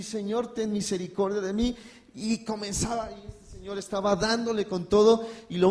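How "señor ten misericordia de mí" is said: higher pleading cry to God; desperate plea. Retold or imitated. Brother being beaten, pleading to God in mock fear. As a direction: beg for mercy with a lifted voice.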